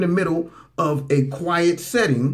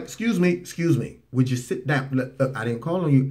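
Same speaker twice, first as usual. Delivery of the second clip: polite. Retold or imitated. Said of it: "he was just like".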